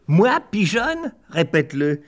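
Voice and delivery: high indignant rise; outraged disbelief. Acted. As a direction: shriek the insult back, appalled. Outraged at insult.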